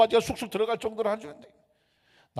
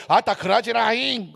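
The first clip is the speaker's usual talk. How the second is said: Jeolla dialect; 5 semitones higher, 6 dB louder than usual. Retold or imitated. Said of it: "광주라는 거예요".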